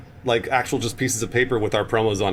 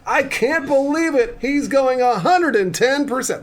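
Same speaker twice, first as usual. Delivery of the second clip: high, loud, slow play-by-play caller; sports commentary; 12 semitones higher, 6 dB louder, slower than usual. Pretend. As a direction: call it like a live sports announcer. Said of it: "like, a s-, like, sports commentary".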